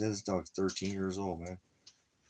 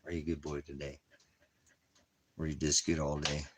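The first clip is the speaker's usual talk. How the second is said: soft dog praise; 2 semitones lower, 4 dB quieter than usual. Real, not acted.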